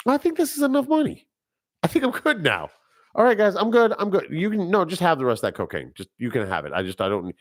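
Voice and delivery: high, breezy voice of a kingpin calling it quits; pretend content drug lord. Imagined Scarface at the money table, high and breezy. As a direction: lift the voice way up and wave the money off casually. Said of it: "I'd be like".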